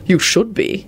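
dry sardonic reply; understated mockery. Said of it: "he replied sardonically".

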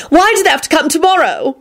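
high-pitched fretful wail; fretful, high complaint. A narrator's reading. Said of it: "she wailed".

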